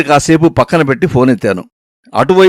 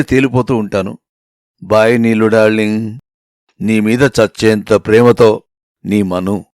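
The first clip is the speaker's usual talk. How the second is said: tender love letter; 4 semitones lower than usual. Acted. A lover writing to his darling, tender and longing. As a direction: read it as a lovesick letter.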